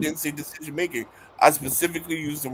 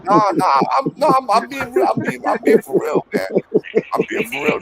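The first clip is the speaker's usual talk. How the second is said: high, loud protest through laughter; laughing protest; 8 semitones higher, 7 dB louder than usual. Real, not acted. Teased guest insisting he is being for real, laughing protest. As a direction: insist loudly while laughing, pitch jumping up.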